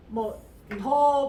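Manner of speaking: 더 said with a hard d, slow; wrong th as d. Shown as a demonstration. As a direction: say 더 flatly like a Korean d. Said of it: "티에이치 발음 안 하고". (잘못된 발음으로 더)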